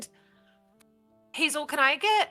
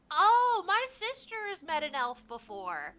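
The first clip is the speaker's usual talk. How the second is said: put-on child voice; 6 semitones higher than usual. GM voicing boy NPC.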